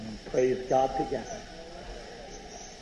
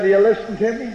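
preacher demanding attention, louder the second time; louder repeat; 3 semitones higher, 6 dB louder, faster than usual. Real, not acted. Preacher repeats his question to the crowd, louder. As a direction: press the question harder at the crowd. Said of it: "I said".

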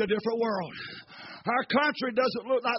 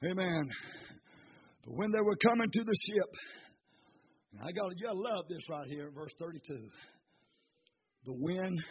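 hushed preaching; 7 semitones lower, 14 dB quieter than usual. Acted. Preacher hushing the church before the storm ends, softly. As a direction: pull them in close, barely above a breath.

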